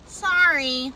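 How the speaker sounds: mock half-hearted sorry; drawn-out, insincere sorry; half-hearted apology. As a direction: imitate a token apology, barely meant. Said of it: "this is the half-ass apology".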